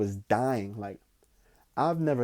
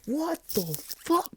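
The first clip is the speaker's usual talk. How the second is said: stunned disbelief. Retold or imitated. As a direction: let the what the hang in shock. Retold shock at creature.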